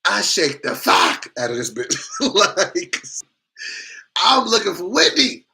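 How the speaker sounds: high, loud gleeful telling; excited brag. Real, not acted. Comic bragging to the crowd, loud and high. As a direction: crow about the escape. Bragging about ditching his date.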